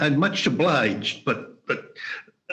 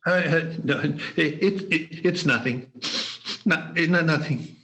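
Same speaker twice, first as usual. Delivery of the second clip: tearful denial. Acted. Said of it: "Your lip is trembling".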